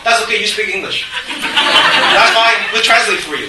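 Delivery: mock-cheery reporter brushing off the excuse; laughing mimicry of reporters. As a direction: play the pushy reporter through a laugh. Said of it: "They come to you".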